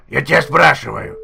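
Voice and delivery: ordinary talk, nothing marked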